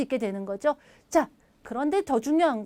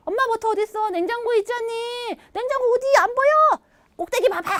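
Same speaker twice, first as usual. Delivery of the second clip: acted mom and child; 9 semitones higher than usual. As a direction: play both kid and mom in a quick back-and-forth. Acted mom-child butter exchange.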